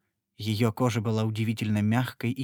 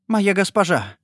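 higher, louder stunned exclamation; astonished cry; 7 semitones higher, 6 dB louder than usual. A narrator's reading. Etienne recognizing his lady: astonished cry.

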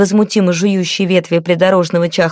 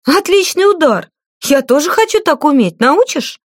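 high, eager delight; thrilled girl; 8 semitones higher than usual. A narrator's reading. Liata begs Cora to teach her, eager delight. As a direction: gush with admiration.

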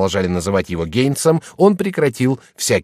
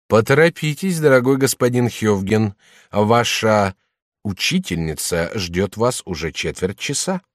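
пауза перед «учительница», затем медленно; злорадная пауза перед словом «учительница»; malicious pause. A narrator's reading. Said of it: "злонамеренной маленькой паузы". (с ехидной паузой перед «учительница»)

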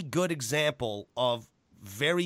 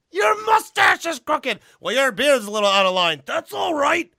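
high, loud, raspy-edged promo shouting; Macho Man impression; 12 semitones higher, 8 dB louder than usual. Imitating Macho Man's promo for a friend, high and loud. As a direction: yell it like a wild cocaine-fueled promo. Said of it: "that's Macho Man".

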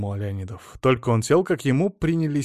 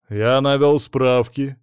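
slow, firm, louder; angry; 2 semitones higher, 7 dB louder, slower than usual. A narrator's reading. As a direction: say it crossly and deliberately. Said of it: "сердито сказал начальник".

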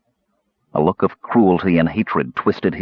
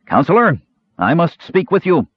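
strained, tense; 9 semitones higher than usual. A narrator's reading. Lord Cal bursts in to speak to the Counselor, strained. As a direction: press the words out tense and strained. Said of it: "The man's voice was strained, tense".

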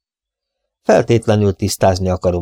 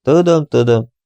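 hasty interruption; 5 semitones higher, 3 dB louder than usual. Acted. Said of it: "szakította félbe sietősen".

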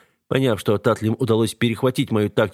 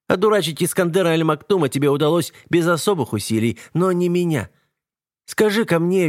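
scornful woman; 7 semitones higher than usual. A narrator's reading. Eva taunts the captive king.

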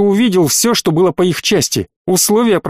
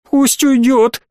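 put-on demanding child; 8 semitones higher, slower than usual. A narrator's reading. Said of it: "требовал мальчик".

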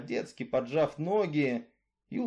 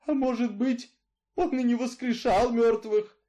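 put-on frightened old woman; 8 semitones higher, 4 dB louder than usual. Grandmother's frightened question.

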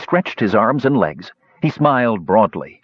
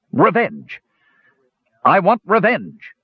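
higher, insistent revenge cry; demanding; 8 semitones higher than usual. A narrator's reading. Gorath facing the lovers, demanding revenge. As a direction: demand it, hammering each word. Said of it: "Gorath demanded".

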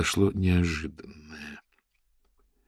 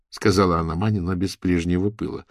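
ordinary delivery

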